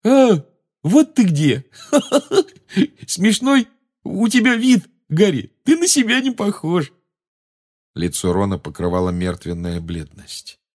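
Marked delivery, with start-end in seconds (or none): 0.0-6.9 high, loud, slurry giggle-talk; dazed giggling. A narrator's reading. Addled Ron teases Harry about his looks, giggling. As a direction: stretch words out, breaking into silly laughter. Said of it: "слабо хихикая".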